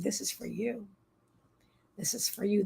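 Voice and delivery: soft, gentle quote; hushed and tender; tender retold offering. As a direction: offer it quietly, like a gift. Retells tenderly handing over the crystal.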